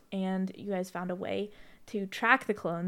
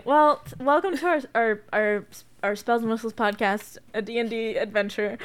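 louder, silky boss villain welcome; girl boss villain voice; 6 dB louder than usual. Shown as a demonstration. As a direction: greet them like a smug boss villain. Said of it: "a girl boss villain voice".

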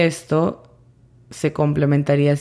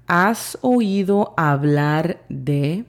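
slow translation; slower than usual. Shown as a demonstration.

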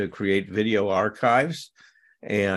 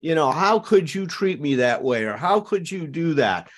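mock angry blaming; 3 semitones higher than usual. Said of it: "what I thought was radical honesty".

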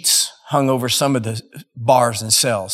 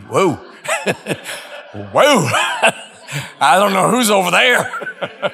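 laughing; 5 semitones higher than usual. Retold or imitated. Laughing nervous reaction.

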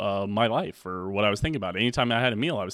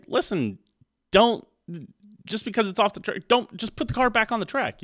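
high, urgent encouragement; excited pep talk; 10 semitones higher than usual. Acted. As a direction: plead with them to keep going. Pep talk to discouraged dieters.

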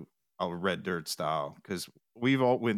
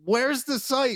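pitched way up, eager and pressing; excited; 5 dB louder, much slower than usual. Retold or imitated. To a friend about the band page, excited and high. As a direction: demand the site like it's urgent news.

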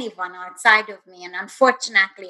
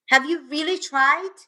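probing inner voice; 5 semitones higher than usual. Retold or imitated. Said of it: "And the voice said".

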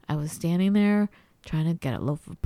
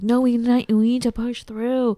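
imitated insistence; 4 semitones higher, 5 dB louder than usual. Imitates insistent partner in argument.

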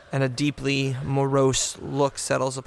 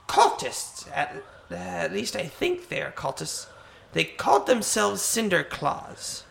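hoarse bird voice. Acted. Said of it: "with a voice that sounds like a hoarse bird".

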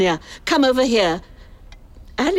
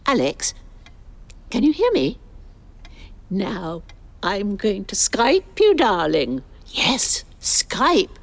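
put-on posh older lady voice. Older woman voiced on Skype call.

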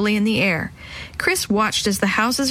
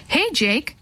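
mild call; 6 semitones higher than usual. A narrator's reading. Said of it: "another man yelled".

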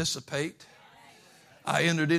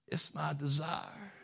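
quiet; 10 dB quieter, slower than usual. Shown as a demonstration. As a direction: say it gently, almost to yourself.

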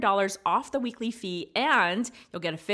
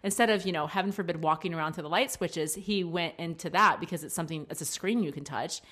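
mild exasperated parent; 2 semitones lower than usual. Retold or imitated. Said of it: "exactly like I said it on the microphone".

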